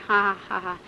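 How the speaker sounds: low mocking "ha ha ha"; imitated devil's laugh. Devil mocks the visitor in hell, put-on evil laugh. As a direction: put on the devil's spaced-out cackle. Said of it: "dava aquela risada assim".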